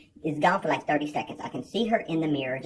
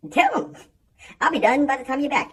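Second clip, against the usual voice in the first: much higher, loud taunting shout; defiant yell; 10 semitones higher, 7 dB louder than usual. Retold or imitated. Defying the woman who threatens the manager, high loud taunt. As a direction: fling it at her as she storms off. Defiant retort to gym lady.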